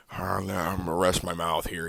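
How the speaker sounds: sarcastic mock-innocent fighter. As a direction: play dumb, a hint of fake innocence. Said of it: "you don't leave those teeth marks just like".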